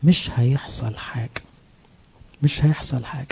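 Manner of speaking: soft, tempting whisper right into the ear; devil whispering in the ear. Acted. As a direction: breathe it like a sly devil at your shoulder. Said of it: "يجي في ودنك يقول لك إيه".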